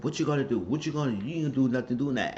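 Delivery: lightly acted dare; taunting. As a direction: goad him, imitating her needling. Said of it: "taunting David".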